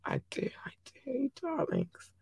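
hushed, breathy I love you; a fond whispered shoutout to listeners; tender whisper. Acted. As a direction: whisper it softly to the fans.

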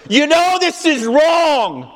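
high, loud anguished cry; soaring, slowed shout of protest; truth screaming. Acted. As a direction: scream it out like a buried conscience. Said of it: "that truth just want to scream".

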